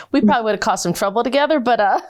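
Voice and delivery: rushing through it, breaking into laughter; laughing. Real, not acted. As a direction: giggle as you picture the mischief. Teasing about causing trouble together.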